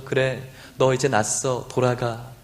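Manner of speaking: low, slow offhand reply; casual dismissal. Acted. Jesus imagined answering Bartimaeus offhandedly, casual and low. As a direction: brush him off lightly. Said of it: "이렇게 해도 괜찮은데".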